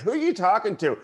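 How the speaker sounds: high, suspicious wife voice; wife demanding from the next room; mock wife. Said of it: "she's like".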